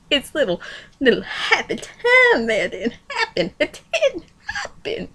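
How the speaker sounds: talking through real laughter; laughing. Real, not acted. Reader teasing Yuzak's happy time, laughing as she speaks.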